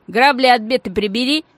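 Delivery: loud, sharp command; sharp order. Acted. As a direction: snap the warning at the thug. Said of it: "тон говорившего изменился, стал резким".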